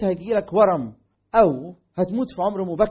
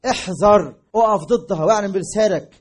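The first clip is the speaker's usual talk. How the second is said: urgent preaching call; 5 dB louder than usual. Real, not acted. Preacher urging resistance.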